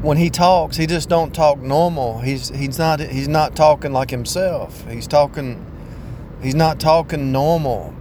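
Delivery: high, loud mock complaint from the wife; wife complaining to the counselor, high mock whine; imitating wife. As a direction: raise the pitch and whine like his wife. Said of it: "My wife said, told the counselor".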